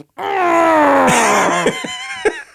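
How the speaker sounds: strained high laughing cry; a shrieking laugh-yell; laughing scream. Acted. Acted frustration before coffee.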